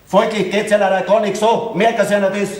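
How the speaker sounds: mildly testy retort; understated peevishness; irritated. Acted. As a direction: answer with a touch of irritation. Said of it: "warum denn jetzt der gereizte Ton?".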